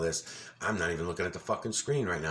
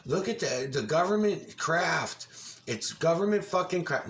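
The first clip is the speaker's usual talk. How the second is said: mocking Jamie Lee; 8 semitones higher than usual. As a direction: ham up a gullible alarmist gasping. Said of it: "And I'd say".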